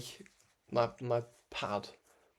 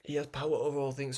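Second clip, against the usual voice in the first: words stretched by a yawn; 2 semitones higher, faster than usual. Real, not acted. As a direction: speak through a real yawn. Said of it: "Sorry, I was yawning then".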